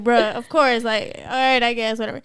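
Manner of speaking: acting out weary acceptance; retold resignation. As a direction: let it sink into a whatever.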